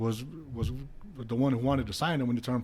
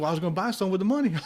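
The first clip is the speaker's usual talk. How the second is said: high, fast, through laughter; sheepish giggling explanation; laughing excuse; 6 semitones higher, faster than usual. Retold or imitated. Voicing roommate's excuse.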